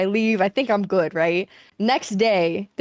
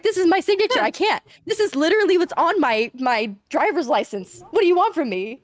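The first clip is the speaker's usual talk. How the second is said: pleading protest; 7 semitones higher than usual. Retold or imitated. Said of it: "I was like".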